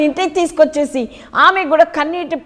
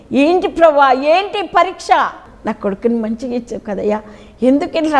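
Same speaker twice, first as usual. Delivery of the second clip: weeping plea to God. Retold or imitated. Mother retelling her cry to God about her son, mildly tearful. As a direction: cry out to God asking why. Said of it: "అందరిని ఏడుస్తున్నాను".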